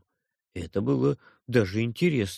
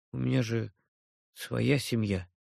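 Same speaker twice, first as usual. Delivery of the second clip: sad; 3 semitones lower, 5 dB quieter than usual. Acted. After heavy sigh.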